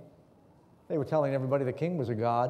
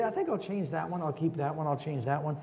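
airy mock whim, softer; mock whimsical, dropping softer; 4 dB quieter than usual. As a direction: toss it off like a fickle ruler. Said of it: "he's gonna whimsically say".

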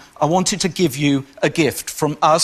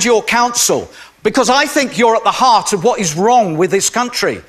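passionate angry rant; 3 semitones higher than usual. Real, not acted. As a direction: tear into the press officer with indignant fury. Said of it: "I make no excuse for talking in such a passionate way".

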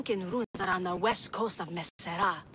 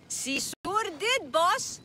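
slow and raised; 7 semitones higher, much slower than usual. Acted. Speaks up to deaf boss.

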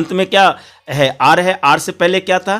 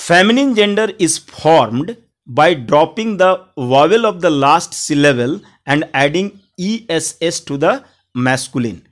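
slow, word-by-word dictation of the rule; slow rule reading; much slower than usual. Shown as a demonstration. Teacher dictating the grammar rule to students, very slow. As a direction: read the rule out slowly for students to copy.

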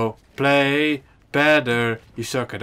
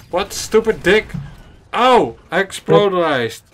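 loud high outburst; frustrated yelling; 6 semitones higher, 6 dB louder than usual. Real, not acted. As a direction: yell out as you get killed. Dying in game, yelling.

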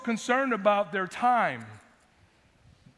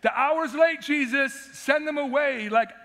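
whiny disciples; 4 semitones higher, 4 dB louder than usual. Retold or imitated. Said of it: "the disciples came and said".

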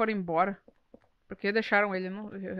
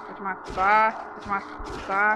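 "Vou te matar" dragged out slowly and lower; drawn-out mock threat, word by word; slow menace; 3 semitones lower, much slower than usual. Repeated threat, slowed.

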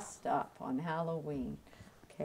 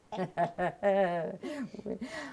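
playful cackling laugh; light mock-witch laughter; pretend witch cackle. Acts out witches who cackled.

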